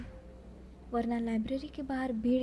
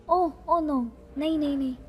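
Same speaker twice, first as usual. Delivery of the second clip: panicked; 3 semitones higher, 7 dB louder, faster than usual. Acted. Caught staring, panics.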